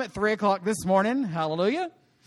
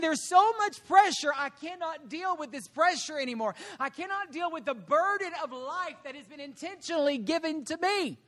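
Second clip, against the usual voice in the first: overwhelmed pleading; 3 semitones higher, 8 dB quieter than usual. Acted. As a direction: plead quietly at the end of your rope. Voices Moses overwhelmed by pressure.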